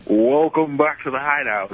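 slow booming announcer voice; fighting game announcer. Acted. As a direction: stretch it out like an arena announcer. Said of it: "I'm an announcer voice".

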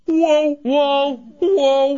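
drawn-out surfer whoa; stunned Keanu whoa; Keanu Reeves impression. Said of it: "I did the Keanu".

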